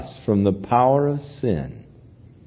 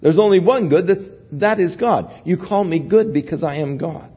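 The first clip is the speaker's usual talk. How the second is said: higher, urgent insistence; preacher voices Jesus pressing the young man, higher and fervent; fervent paraphrase; 7 semitones higher than usual. Retold or imitated. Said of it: "Bring it out into the conscious".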